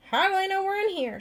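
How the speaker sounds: high squeaky panicked question; squeaked. A narrator's reading. Annabelle frightened to Tiffany, high squeaky voice. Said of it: "she squeaked".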